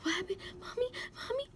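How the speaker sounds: put-on high, small child's voice; high-pitched questioning little kid; young daughter. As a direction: imitate a daughter calling for her mom. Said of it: "So she's like".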